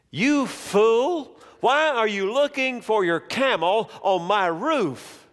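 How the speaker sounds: a lightly acted king losing patience; scolding king. A narrator's reading. King scolds the man searching for his camel, scornful.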